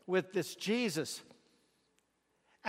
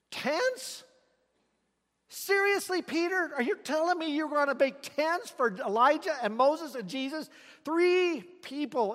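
incredulous; 4 semitones higher than usual. Acted. Preacher mocks Peter's idea.

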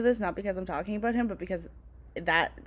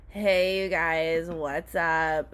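bimbo voice; 4 semitones lower, much slower than usual. Retold or imitated. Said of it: "my drunk voice".

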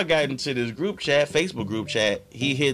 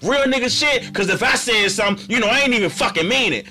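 mock angry apology; 7 semitones higher than usual. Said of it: "Motherfuckers was angry and shit".

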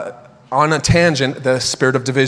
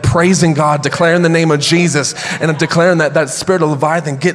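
loud declaring; 2 semitones higher, 4 dB louder than usual. Retold or imitated. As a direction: proclaim it loud and triumphant. Retelling declaring Jesus' name.

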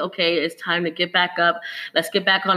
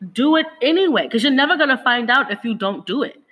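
insistent; 4 semitones higher than usual. Real, not acted. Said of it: "sorry if I sound so pushy".

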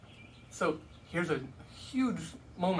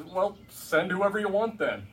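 giving up Moses; 4 semitones higher, 6 dB louder than usual. Retold or imitated. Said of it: "throws his hands up and says".

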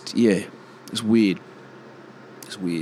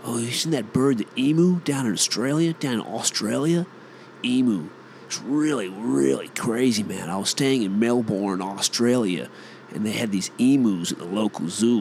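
mock Yank tourist gushing; hammed-up American accent, EMU as ee-moo. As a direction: imitate an American telling a travel story. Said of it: "Have you ever heard the Yanks say emu?".

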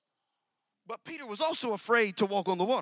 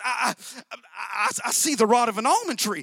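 surprised stammer; 2 semitones higher, 6 dB louder than usual. Acted. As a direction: stammer "I, I, I, I" and then name what he sees. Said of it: "he's actually surprised at what he sees".

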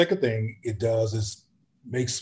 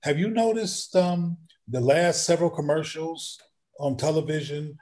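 put-on higher-pitched, gentle question to a child; lightly acted question for a youngster; talking to a child; 4 semitones higher than usual. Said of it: "I'll say to a child".

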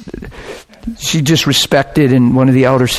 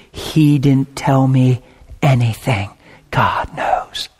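stern confrontation; 2 semitones lower, 3 dB quieter, slower than usual. Retold or imitated. Man of God sets the young man straight, stern confrontation.

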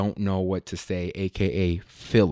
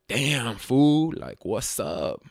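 lightly voiced derpy cholo, dropping slower at the end; derpy cholo stereotype; much slower than usual. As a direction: let the derpy homeboy voice sag. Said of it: "kinda derpy voice".

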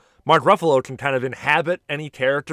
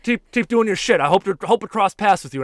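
high, louder imitation of an encouraging comedian; Bill Burr; 8 semitones higher, 5 dB louder than usual. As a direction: send a fan off with pitched-up encouragement. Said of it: "And he's like".

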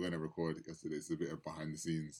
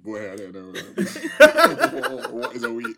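imitating Toby; 5 semitones higher, 14 dB louder than usual. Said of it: "Toby just looked to the left and said".

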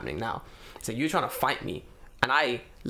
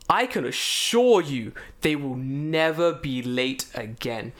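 slow, earnest assurance; grave, formal vow from the manager; solemn promise; 3 dB louder, much slower than usual. Retold or imitated. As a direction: promise it slowly and firmly.

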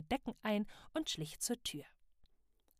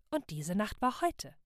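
plain reading voice

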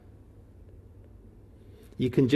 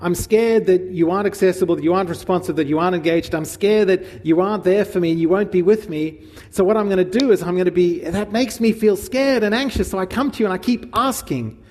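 anxious demanding voice; 4 semitones higher, 3 dB louder than usual. Acted. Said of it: "the anxious demanding is".

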